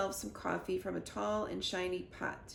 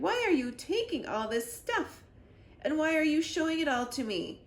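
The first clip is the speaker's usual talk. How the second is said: indignant; 7 semitones higher, 4 dB louder than usual. A narrator's reading. Kid confronts the KGB man.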